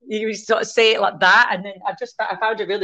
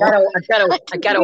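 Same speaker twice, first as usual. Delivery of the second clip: Scottish accent; 4 dB louder, faster than usual. Shown as a demonstration. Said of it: "pretend that you can speak it".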